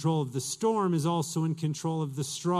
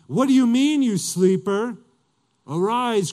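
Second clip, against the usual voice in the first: loud, raised pitch on the rebuke; urgent rousing; 4 semitones higher, 6 dB louder than usual. Acted. Ship's captain to sleeping Jonah, urgent and loud. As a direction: rouse a sleeper with a loud command.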